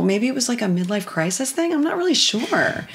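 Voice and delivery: ordinary talk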